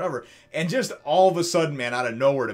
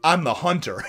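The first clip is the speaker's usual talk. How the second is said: louder with a laugh, hyped shout of I'm the hunter; cool hero line; 3 semitones higher, 5 dB louder than usual. Retold or imitated. Sanji answering the wolf, laughing excited shout. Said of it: "he's just like".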